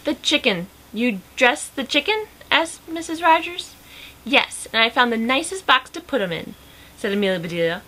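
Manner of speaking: animated read-aloud with lively character lines; lively storybook reading; story narration. A narrator's reading. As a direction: read a picture book aloud, lifting the dialogue.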